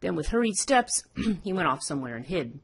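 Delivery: animated read-aloud storytelling with lively pitch swings; measured, expressive tale reading; story narration. A narrator's reading. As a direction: read the folk tale out to listeners.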